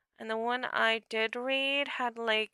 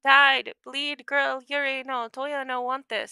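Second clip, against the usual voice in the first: high, loud, halting mimic voice; shrill creature cries; 3 semitones higher, 7 dB louder than usual. A narrator's reading. Distressed mimic protesting with its tongue out, high shrill cries. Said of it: "his voice shrilled, high, and crackly".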